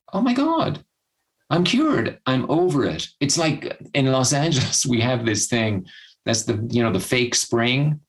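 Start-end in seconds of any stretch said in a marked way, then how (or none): 0.1-3.1 mock elated relief. Imagining someone who thinks the depression is over, mock elated relief. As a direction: exclaim as if suddenly cured.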